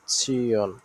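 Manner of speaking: "সিয়ন" slowly, as si-on; demonstrated pronunciation. Shown as a demonstration. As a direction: draw out "সিয়ন" for the learners. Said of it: "সিয়ন উচ্চারণটা মনে রাখার".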